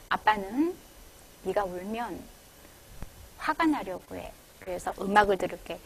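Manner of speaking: put-on softly, calm and low-key, to a crying child; soft, small voice. Shown as a demonstration. A parent calmly telling a crying child he will listen to music, softly. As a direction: say it gently and quietly so the child strains to hear. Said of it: "근데 그때도 조그맣게 해야 돼".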